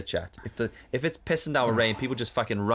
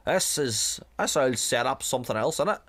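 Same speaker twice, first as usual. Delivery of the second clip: lightly imitated Northern Irish accent; a hint of a Northern Irish butcher; Northern Irish small talk, lightly voiced; 3 semitones higher than usual. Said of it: "I'm just giving him a generic Northern Ireland accent".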